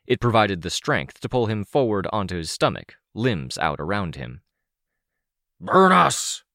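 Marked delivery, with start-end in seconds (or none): 5.6-6.4 loud, high-pitched harsh hiss; sudden piercing hissed cry. A narrator's reading. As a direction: hiss it out forcefully, like a creature in pain. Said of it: "Cryptid hissed".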